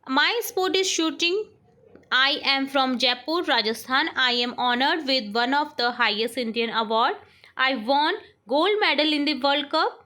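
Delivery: very slow, word by word dictation. Shown as a demonstration. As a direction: read it out slowly for the class to write. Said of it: "teacher dictates paragraph". (धीमे-धीमे बोलकर लिखवाना)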